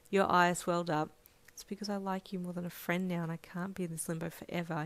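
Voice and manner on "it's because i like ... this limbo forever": soft inner voice; inner thought. Acted. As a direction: think it quietly to yourself. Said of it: "you thought".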